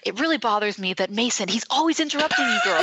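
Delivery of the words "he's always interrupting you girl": high, quick sassy aside; sassy tease. Pretend. Mock-sassy to her co-host about Mason. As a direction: tease her like a gossiping friend.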